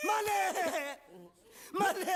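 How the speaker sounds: high, drawn-out wail to the master; hammed-up anguished call; wailing plea. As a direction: cry out for your master melodramatically. Servant wails to his master.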